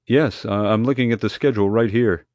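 tentative radio dispatcher voice; hesitant dispatcher. A narrator's reading. Dispatcher reminding guard of the relocation project, hesitant. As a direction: break it to them gingerly.

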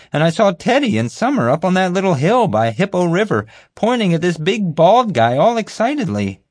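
high, loud, eager storytelling; happy, self-pleased guard. Acted. Bumbling guard telling how he caught the fugitive, happily. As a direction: pitch it way up and revel in the tale. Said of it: "happily related the story".

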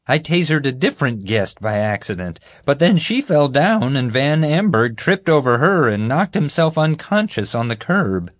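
high, eager, self-important voice; bumbling guard. Acted. Guard recounting the chase to the group, eagerly. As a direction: pitch it up and boast through the story.

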